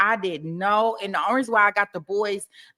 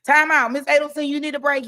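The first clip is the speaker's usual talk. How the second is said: mock judge; 7 semitones higher, 5 dB louder than usual. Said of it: "The judge would be like".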